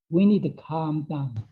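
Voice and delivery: slow calming. Shown as a demonstration. Teacher guiding listeners to calm down, slowly and gently. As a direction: ease the pace down as if calming yourself.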